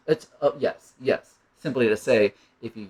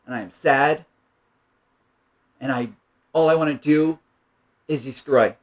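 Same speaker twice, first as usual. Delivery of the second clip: put-on a child's building anger, rising to louder; a small child pouring out anger to a parent, getting louder; angry child; 5 dB louder than usual. Child voiced telling parent its anger.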